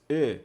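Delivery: "E" as a sound between E and A; demonstrated "E", short neutral vowel between E and A; shva half-vowel. Shown as a demonstration. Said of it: "aquele som entre o E e o A".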